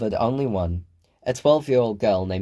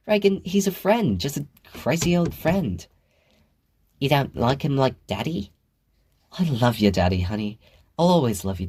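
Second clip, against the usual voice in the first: a higher, lightly voiced mom laughing it off; reassuring mother; 4 semitones higher than usual. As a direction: brush it aside fondly. Chris reassuring daughter, voiced higher.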